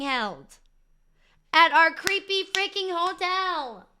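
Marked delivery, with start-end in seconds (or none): 1.5-3.9 incredulous reveal. Real, not acted. Reveals after party at their hotel.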